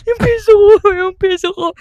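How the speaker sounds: high mock-sobbing for the coin; hammed-up drunk sob; drunk crying. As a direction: wail about the lost coin. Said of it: "Iyak daw siya".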